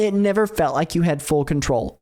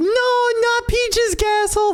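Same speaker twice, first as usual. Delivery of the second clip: put-on very high, drawn-out wailing toddler meltdown shriek. Retelling how the oldest screamed during a meltdown: imitating a child screaming in a meltdown. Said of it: "he has a meltdown and screams".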